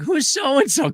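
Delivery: puzzled. Retold or imitated. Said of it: "I'm like".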